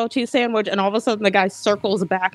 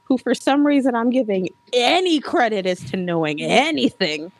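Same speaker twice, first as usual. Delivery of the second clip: sweet, oblivious voice; 3 semitones higher than usual. Retold or imitated. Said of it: "she's so sweetly just like".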